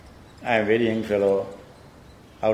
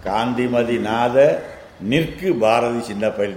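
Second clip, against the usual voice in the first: quick chanted reading of the Tamil lines; rapid verse recitation; much faster than usual. Shown as a demonstration. Teacher reciting the verse to his student, fast and chanted. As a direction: run through the verse at speed.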